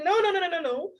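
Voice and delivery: "no, no, no" strung together, pitched high; emphatic repetition. Shown as a demonstration. Teacher comparing English to Yoruba, emphatic repeated no. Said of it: "just the way you say".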